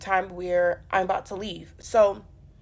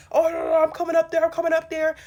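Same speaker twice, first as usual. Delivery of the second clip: furious threat; 7 semitones higher, 6 dB louder, faster than usual. Retold or imitated. Boyfriend furious on phone.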